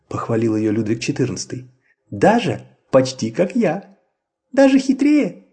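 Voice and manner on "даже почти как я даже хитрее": high chirpy laughing voice; peeping baby chick. A narrator's reading. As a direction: giggle it like a chick. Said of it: "засмеялась Тутта Карлсон".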